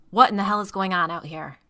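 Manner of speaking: demanding. Acted. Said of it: "Grill demanded".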